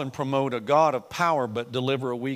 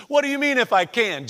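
raised, loud challenge; irritated; 9 semitones higher, 7 dB louder than usual. Acted. Jesus answering the doubting father, irritated. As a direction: throw the question back, irritated. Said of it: "He's still a little irritated".

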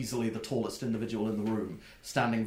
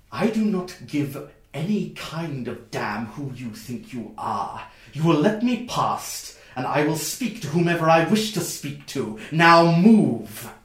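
commanding and angry, higher and louder, exploding on "now move"; furious distant shout; 5 semitones higher, 6 dB louder than usual. Acted. Woman forcing past the guards, shouting angrily. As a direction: bark orders at the guards blocking the way. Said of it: "that goes".

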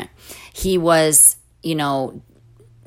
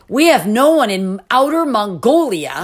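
higher, swooping mock-recruiter voice; gung-ho recruiter; 5 semitones higher, 4 dB louder than usual. Mission organization planting its flag, mock gung-ho pitch. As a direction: imitate an over-eager organization pitching a remote post.

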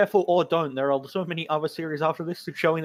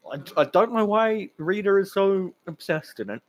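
normal talking voice

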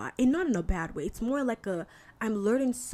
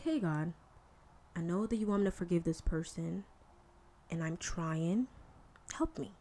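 soft prayer; 3 semitones lower, 6 dB quieter than usual. Retold or imitated. Acting out a prayer to God.

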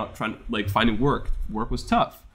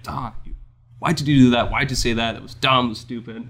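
cracking voice scolding self. Retold or imitated. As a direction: let the voice crack. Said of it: "I'm really like".

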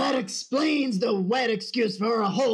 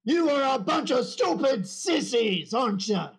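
drill sergeant. Acted. Drill sergeant berating recruits.

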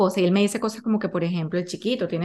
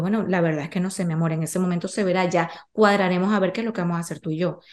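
slightly lower, easygoing parental tone; matter-of-fact reassurance; 4 semitones lower, faster than usual. Retold or imitated. Mother handles her son's question about death normally, matter-of-fact. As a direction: answer as if it were nothing unusual. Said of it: "yo lo manejo normal".

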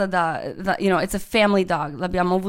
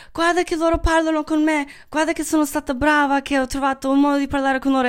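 proud; 5 semitones higher than usual. Retold or imitated. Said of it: "Ero super orgogliosa di me stessa".

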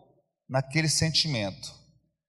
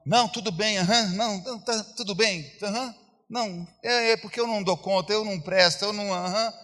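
higher, meek little self-pitying murmur; 4 semitones higher than usual. Retold or imitated. Preacher imitating a self-pitying believer, meek and higher. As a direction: sigh it out like someone who feels worthless. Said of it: "autodepreciação".

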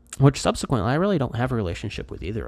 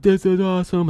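acted enthusiasm; 11 semitones higher, 4 dB louder than usual. Acts out his delight on trips.

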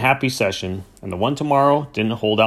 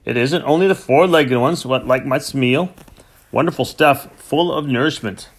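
happily; 2 semitones higher than usual. Acted. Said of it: "he said happily".

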